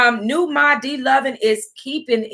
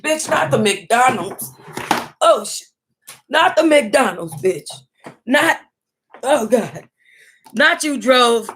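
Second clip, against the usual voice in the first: shocked disbelief; 3 semitones higher than usual. Real, not acted. Shocked reaction to the book.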